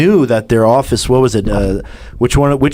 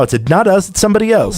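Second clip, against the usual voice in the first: much higher, whiny mock denial; mocking Hamas excuse; 7 semitones higher, faster than usual. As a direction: play the guilty party brushing it off, pitched up. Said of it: "that's their excuse now".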